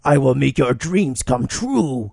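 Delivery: a slow, smooth put-on line. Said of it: "What the hell's that voice?".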